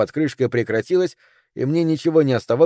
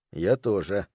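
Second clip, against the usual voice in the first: soft hushed whisper; 4 semitones lower, 6 dB quieter, slower than usual. A narrator's reading. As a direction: breathe it out quietly. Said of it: "прошептал я".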